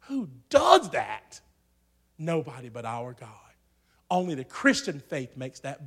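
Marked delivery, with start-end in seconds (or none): 0.1-1.4 slow, high shouted question. Real, not acted. Preacher shouting a slow question at the congregation. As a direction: call it out to the whole church.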